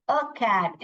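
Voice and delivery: "a" in "a cat" as a short "uh"; article within a sentence. Shown as a demonstration. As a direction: glide lightly from schwa "a" into "cat". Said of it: "ऐसे बोलते हैं".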